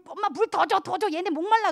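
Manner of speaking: a little kid pleading to mom, lightly voiced; child begging.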